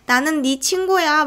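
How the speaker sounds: a touch of heartbreak, drawn out slowly; mildly sad. Retold or imitated. Rescuer tells frightened boy he is a friend, mild sadness. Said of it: "이때 대사가 슬펐던 게".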